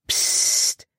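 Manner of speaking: unvoiced hush; sharp "psst" to silence someone; warning shush. A narrator's reading. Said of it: "warnte Caleb".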